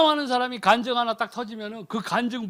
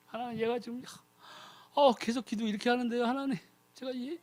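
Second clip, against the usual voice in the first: softer, earnest plea; interceding prayer; 9 dB quieter than usual. Retold or imitated. The Holy Spirit pleads for the believer, soft and earnest. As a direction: pray gently on someone's behalf. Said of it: "이렇게 기도하고 있다는 거예요".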